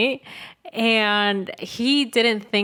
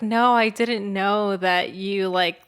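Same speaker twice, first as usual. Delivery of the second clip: feigned surprise; slower than usual. Retold or imitated. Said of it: "trying to act so confused".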